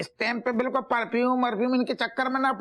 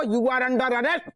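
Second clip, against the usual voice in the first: slow formal arrest; 2 semitones higher, much slower than usual. Acted. Policeman formally arrests Tiwari.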